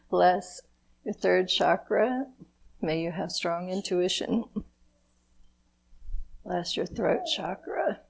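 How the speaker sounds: calm, measured blessing prayer; gentle ceremonial invocation; blessing ritual. Acted. Leads a chakra blessing ritual.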